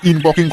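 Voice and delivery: ইনপকিং, with "poking" for "portant"; mispronounced "important". Acted. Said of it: "আগে ভালো করে উচ্চারণ করো". (ইনপকিং বলে ভুল উচ্চারণ)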